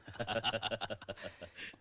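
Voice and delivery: quiet amused chuckle; soft laugh. Acted. Amused by shooting skill.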